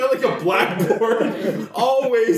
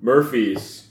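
low mock announcer voice, much lower; mock deep voice; 10 semitones lower than usual. Friends tasting beer, joking in a much lower voice. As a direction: drop the voice way down for a joke.

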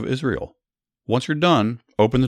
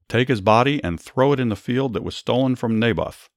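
commander's shout; 5 semitones higher than usual. Acted. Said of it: "The commander shouted".

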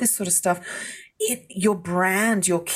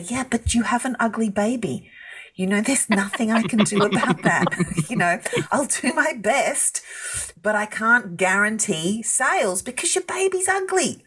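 higher-pitched, half-laughing blunt refusal; mock frank letdown; 6 semitones higher than usual. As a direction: let a client down with mock sympathy, voice lifted. Mock frank answer to client.

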